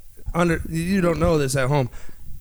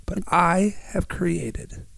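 hoarse, fading voice; losing voice; much slower than usual. Real, not acted. Host losing his voice on air, hoarse. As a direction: voice going, pushing through. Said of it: "I might be losing my voice".

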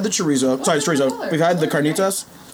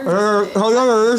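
talking through a mouthful; words round a bite of food; mouth full; 4 semitones higher, 3 dB louder, slower than usual. Real, not acted. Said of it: "Whole podcast with our mouths full".

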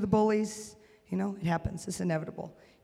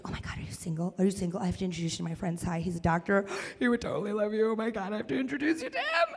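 rapid gush rising to a squeal; lightly voiced fan, rushing through her matchmaking; imitating excited fan; 5 dB quieter, faster than usual. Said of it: "then she's like".

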